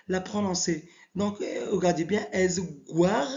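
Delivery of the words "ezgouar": "Ezgouar" with the "gou" sound inside the word; pronunciation demo. Shown as a demonstration. Teacher showing the letter inside a word, careful "Ezgouar". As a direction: model "Ezgouar" carefully for learners. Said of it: "quand il vient à l'intérieur d'un mot".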